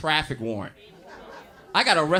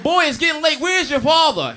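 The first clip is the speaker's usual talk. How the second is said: mother voice; 9 semitones higher, 7 dB louder than usual. Retold or imitated. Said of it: "She's like".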